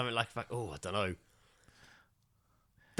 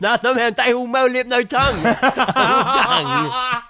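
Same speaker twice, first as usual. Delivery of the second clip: higher, louder tongue-out voice; swollen tongue voice; 9 semitones higher, 6 dB louder than usual. Pretend. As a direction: talk with the tongue hanging out. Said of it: "quite enjoying that voice".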